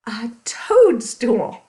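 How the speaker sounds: slow whispered toadstool reveal; slow stage-whisper reveal. Acted. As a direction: whisper it like a secret to the kids. Dramatic reveal to children.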